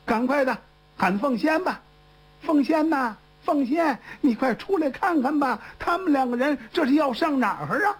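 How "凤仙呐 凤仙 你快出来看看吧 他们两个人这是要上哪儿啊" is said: 扯着嗓子往屋里喊人; 提高调门儿喊人出来，带点着急; 高声呼唤. Acted. 干妈喊凤仙出来. (干妈着急地高声呼唤凤仙)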